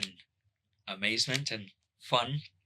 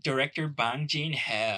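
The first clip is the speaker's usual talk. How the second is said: put-on Valley girl voice; 3 semitones higher than usual. Shown as a demonstration. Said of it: "You sound like a Valley girl".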